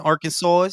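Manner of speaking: "Arkansas" ending in a drawn "sawl"; odd Arkansas pronunciation. Real, not acted. Bantering about an unholy union, "Arkansas" ending like "sawl". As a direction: say "Arkansas" with an L-like tail. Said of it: "Why you say Arkansas?".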